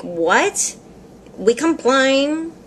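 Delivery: slow questioning rise on "We complain?"; retold disbelief. Customer repeats guy's words back, puzzled and disbelieving.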